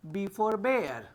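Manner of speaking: teacher correcting bear to "bare"; bear, not beer. Shown as a demonstration. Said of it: "इसको बियर नहीं".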